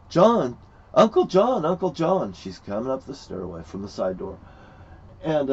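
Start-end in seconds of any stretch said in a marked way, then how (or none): 0.1-2.3 imitating calling niece. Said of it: "my niece comes upstairs".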